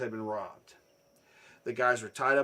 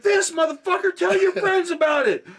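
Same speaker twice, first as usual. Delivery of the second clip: high, very loud boast; hammed-up aggressive taunt; taunting yell; 10 dB louder than usual. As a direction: re-enact shouting down a beaten opponent. Retold triumphant taunt at robber.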